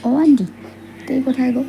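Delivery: calling out. Acted. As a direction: call out to someone in another room. Calling aunt across the house.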